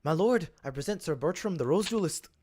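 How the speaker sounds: shaky attempt at a Welsh accent. Presenting Sir Bertram to my lord, attempted Welsh accent. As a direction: present someone formally in uncertain Welsh. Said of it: "I don't even know how to be Welsh".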